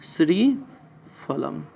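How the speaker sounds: श्रीफलम drawn out slowly, syllable by syllable; slow dictation. Shown as a demonstration. Teacher dictates the Sanskrit word slowly to students. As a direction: spell श्रीफलम out very slowly for note-taking.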